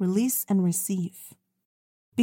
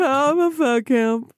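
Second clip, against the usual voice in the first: incredulous echo; 4 semitones higher, 5 dB louder, slower than usual. Retold or imitated. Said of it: "she said".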